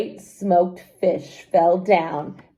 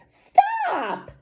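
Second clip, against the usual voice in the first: much higher sharp shout of "Stop!". Acted. Wife stopping husband from eating stones, high shout. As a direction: yell to stop him in his tracks. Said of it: "shouted Emma".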